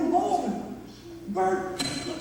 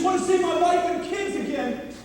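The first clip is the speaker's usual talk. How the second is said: desperate prayer; 2 semitones higher than usual. Acted. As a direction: beg for your life. Prayer in despair.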